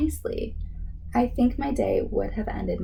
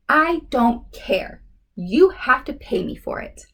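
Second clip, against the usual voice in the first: a kid's hammed-up anger; stubborn anger; 4 dB louder than usual. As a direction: insist she pays, bossy. Danny angrily demands payment.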